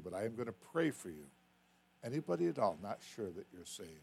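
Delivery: hushed invitation with bowed heads. Acted. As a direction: gently invite them to pray. Altar call and prayer.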